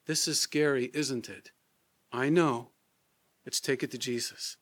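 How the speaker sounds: gently. Shown as a demonstration. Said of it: "And you gently say".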